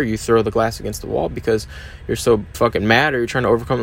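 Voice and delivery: a hint of a contemptuous inner critic, at talking volume; harsh inner voice. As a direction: voice the nagging self-doubt in your head, mildly sneering. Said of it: "not a whisper, but like a talking voice".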